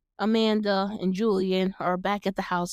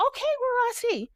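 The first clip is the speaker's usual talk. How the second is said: put-on higher, sassy "okay, girl"; sassy approval; 13 semitones higher than usual. Host imagining an older Julian, sassy approval. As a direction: approve like a hyped-up friend.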